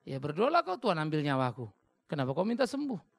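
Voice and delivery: loud challenging preacher call; forceful preaching. Acted. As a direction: press them hard, loud. Preacher challenges congregation loudly. (seruan khotbah yang keras)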